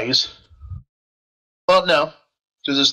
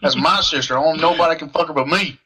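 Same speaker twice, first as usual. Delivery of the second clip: put-on southern accent; 2 semitones higher than usual. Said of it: "southern accent".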